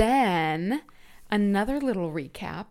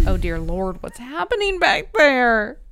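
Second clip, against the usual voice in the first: mock alarm; 4 semitones higher, 7 dB louder than usual. Retelling hearing the wall ripped out, mock alarm. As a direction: climb into a hammed-up, stretched wail.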